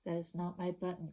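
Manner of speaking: quiet, hurt little voice; soft sad whimper. Shown as a demonstration. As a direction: reread it the way Toad cried. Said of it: "one of the words that he uses is cried".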